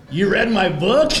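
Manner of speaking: loud, high, slowed punchline; retold surprise. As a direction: act out astonished disbelief, drawing it out. Retold sudden flattered surprise, punchline.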